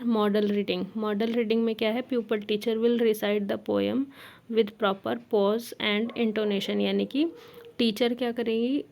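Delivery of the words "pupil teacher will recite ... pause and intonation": slow, spaced-out dictation pace; teacher dictating notes slowly. Shown as a demonstration. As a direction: spell out each phrase for note-taking. Dictating lesson plan text.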